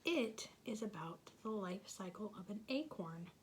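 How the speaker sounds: whisper. Real, not acted. Teacher whispering to children at storytime. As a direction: hush it like a secret.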